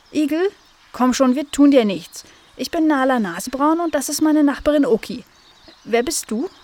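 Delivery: high, lively coaxing voice; friendly Nala. Acted. (hohe, freundlich lockende Figurenstimme)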